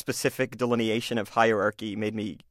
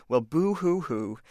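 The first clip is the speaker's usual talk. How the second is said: mock crying; 3 semitones higher, slower than usual. Bully mocking victim's sadness.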